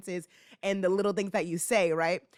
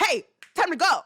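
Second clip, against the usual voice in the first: put-on higher, louder call to the kids; yelling; 8 semitones higher, 6 dB louder than usual. Shown as a demonstration. Nanny to kids who are not listening, yelling. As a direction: yell it to get their attention. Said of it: "instead of yelling".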